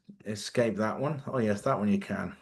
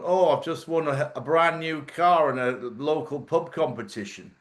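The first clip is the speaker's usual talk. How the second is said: northern English monotone; 2 semitones higher than usual. Retold or imitated. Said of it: "always got the same monotone".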